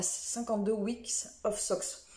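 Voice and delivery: French-accented English, slow and careful; self-mocked English accent. Shown as a demonstration. Vlogger warns of her crazy accent before an English title, hesitant English accent. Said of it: "attention, accent de fou".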